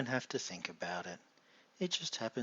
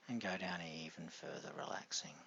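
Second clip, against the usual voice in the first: whispering; 2 semitones lower, 7 dB quieter than usual. Acted. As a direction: let it fade into a whisper. Whispered deepening suggestion.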